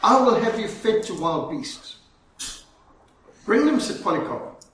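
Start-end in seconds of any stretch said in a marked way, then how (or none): 0.0-2.0 firm, slightly raised threatening declaration; measured menace in a storyteller's quote; retold threat. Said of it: "He threatened him and he said". 3.4-3.8 loud, higher-pitched retort; bold, punched dare; defiant challenge. Retold or imitated. Martyr defiantly answers a threat.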